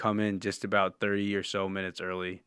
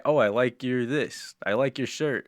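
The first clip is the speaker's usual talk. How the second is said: mock friendly cashier; 3 semitones higher than usual. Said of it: "Maybe they say".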